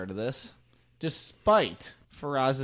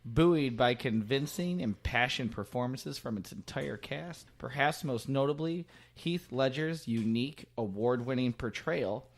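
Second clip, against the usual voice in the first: 1940s newscaster. Acted. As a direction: announce it like a 1940s newsreel. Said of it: "your nineteen forties newscaster voice".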